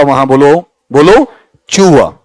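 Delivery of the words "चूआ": चूआ with a sound halfway between ट and च. Shown as a demonstration. Teacher demonstrating the tourist sound to the class. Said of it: "ट और च के बीच का साउंड".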